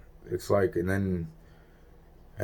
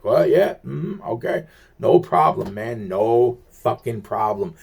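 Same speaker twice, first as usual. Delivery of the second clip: imitating the cops gone suddenly agreeable; mock polite cops; 3 semitones higher than usual. Imitating cops turned nice after the phone call, mock friendly.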